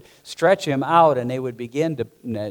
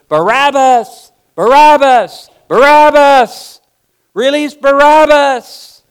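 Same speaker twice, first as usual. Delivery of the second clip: louder, higher mob chant; crowd yelling; 13 semitones higher, 15 dB louder, slower than usual. Acted. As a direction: shout it like a mob demanding release.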